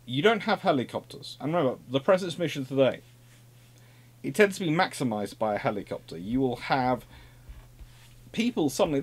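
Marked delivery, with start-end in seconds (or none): none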